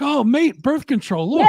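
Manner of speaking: lightly hammed-up impression, laugh creeping in; Steve Harris. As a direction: put on a matey, amused voice. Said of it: "Steve Harris will probably be like".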